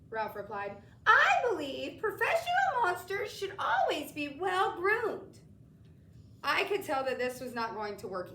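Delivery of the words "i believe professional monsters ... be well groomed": a proud, silky creature drawing it out; Ralph's silky voice. A narrator's reading. Ralph answers the boy about polish, high and silky.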